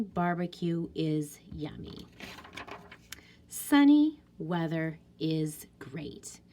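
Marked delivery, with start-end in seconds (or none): 3.5-6.4 slow whispered sentence. Shown as a demonstration. Teacher whispering her exclaimed sentence to the class. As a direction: breathe it out slowly, no voice. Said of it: "exclamation mark here too".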